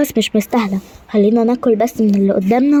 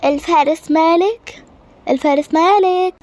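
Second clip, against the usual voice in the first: calling out; 6 semitones higher, slower than usual. Acted. Queen calling for her knight Malek, raised high call. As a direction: call the name out, pitched high.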